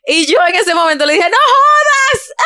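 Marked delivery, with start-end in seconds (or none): 1.3-2.3 high, slow, stretched cry of disbelief; shocked disbelief. Retold or imitated. Telling the landlord she can't believe it, squealing in shock.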